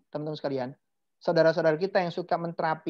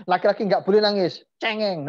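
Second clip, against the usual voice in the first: louder mock telling-off with a laugh in it; imitated scolding parent; 4 dB louder than usual. Parent telling a boy he mustn't cry, laughing imitation. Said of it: "orang tua saya selalu bilang".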